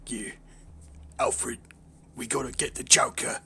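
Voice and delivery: hint of a brooding British hero; lightly voiced masked vigilante; British Batman. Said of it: "British Batman, in it".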